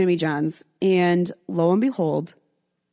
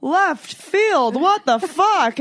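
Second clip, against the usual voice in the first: higher, louder startled whoa; mock shocked; 8 semitones higher, 3 dB louder, much slower than usual. The kid reacting to the orgy offer, shocked. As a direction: caught off guard by the question. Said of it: "the kid was like".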